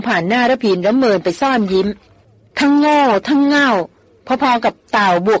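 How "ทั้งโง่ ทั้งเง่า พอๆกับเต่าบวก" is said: higher, slow, each word thumped down; haughty young woman jabbing back at the teaser; heavy, pointed retort. Acted. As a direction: slam the words at him scornfully. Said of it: "กระแทกเสียงหนักๆ".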